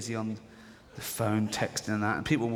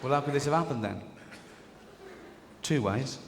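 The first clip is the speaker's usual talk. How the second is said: flustered Mary; 2 semitones lower than usual. Acted. Acted Joseph and Mary dialogue.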